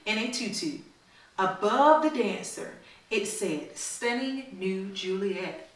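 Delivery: storybook read-aloud to a class; reading to children. A narrator's reading. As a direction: read it like a story for little kids. Teacher reads picture book aloud.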